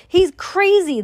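storybook shout. A narrator's reading. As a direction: shout it as appalled parents. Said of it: "they shouted".

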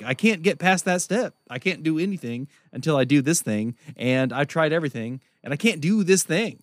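mock exasperated whine; frustrated. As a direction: complain like you've tried everything. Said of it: "It's like".

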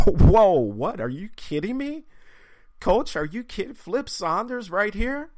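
high-pitched mock disbelief; astonished. Fan spotting his coach in the bathroom, astonished.

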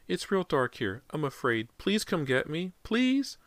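put-on high child's plea, rising at the end; tiny frightened voice. A narrator's reading. Trapped boy begs Daddy, frightened high voice. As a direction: beg as a small scared boy. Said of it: "the tiny, frightened voice said".

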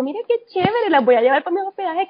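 a hint of an over-generous host; imitating generous friend. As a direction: imitate a friend brightly offering hospitality, quickening as you go. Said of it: "ella bien dadivosa le dijo".

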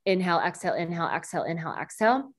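quick pumping breaths through the nose; rapid nasal breath pumps. Shown as a demonstration. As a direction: pump short sharp breaths in and out. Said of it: "So it would be a quicker breath".

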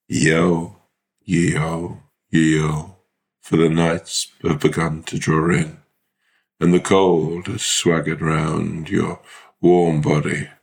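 slow, dramatic poem reading; poetic recital. Acted.

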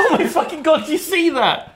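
high, excited mock surprise; surprised. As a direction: pretend to spot him in shock. Mock spotting a jetpack.

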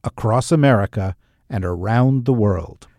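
loud, projected show opening; big announcer-style intro read; podcast intro announcer. Acted. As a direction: announce the show to a wide audience.

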